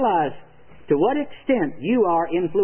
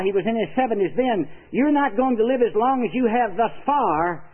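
raised, earnest pleading; preacher answering the old man, heated and earnest; a little excited; 3 semitones higher than usual. Retold or imitated. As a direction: press the point higher and urgent. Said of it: "he got me a little excited".

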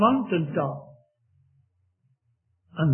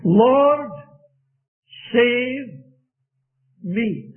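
cry for help; 5 semitones higher, 3 dB louder, much slower than usual. Acted. Preacher re-voices Peter's cry.

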